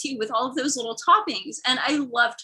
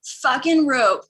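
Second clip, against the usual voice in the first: mildly raised mock exasperation; exasperated driver; 3 semitones higher, 3 dB louder than usual. Driver to passenger's aunt, mock exasperation. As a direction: imitate a driver who has had enough. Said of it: "he's like".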